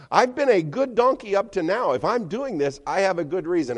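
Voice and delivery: high, earnest donkey voice; talking donkey. Acted. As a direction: argue your case up high. Donkey defends itself.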